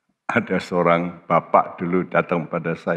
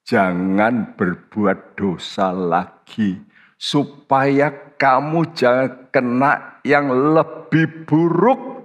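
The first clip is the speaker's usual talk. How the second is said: slow solemn warning; 5 semitones higher, much slower than usual. Acted. Preacher voicing Jesus' warning.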